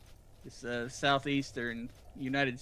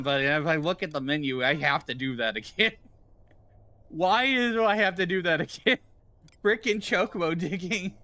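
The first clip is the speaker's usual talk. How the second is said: loud, raised-pitch exasperated complaint; exasperated griping; 4 semitones higher, 5 dB louder than usual. Real, not acted. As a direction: gripe loudly about a tedious chore. Griping about repeating chocobo digging.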